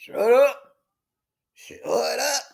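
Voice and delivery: a half-voiced shout, then dropping off; Harry snapping at the warning, a mild mock yell. A narrator's reading. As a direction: bark it at the radio. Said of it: "Harry yells".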